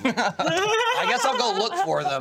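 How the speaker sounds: high, slow, laughing put-on voice; laughing self-mock. Mocking his own plan to go find the late crew, laughing. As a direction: drag it out through a laugh. Mocks himself going to find them.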